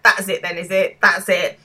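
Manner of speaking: mildly incredulous retort. Retold or imitated. Mark unable to believe Jeremy won't apologise, mildly incredulous. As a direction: retell it with a touch of disbelief. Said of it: "he's incredulous".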